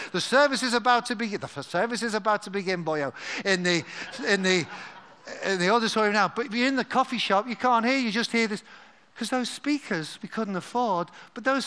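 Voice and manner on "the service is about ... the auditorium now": Welsh announcer impression. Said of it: "Andrew Harris's voice saying".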